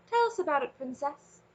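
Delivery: high, firm royal command. Acted. Dragon king commands the princess to speak, commanding. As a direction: give the order like a king. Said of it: "Kazul commanded".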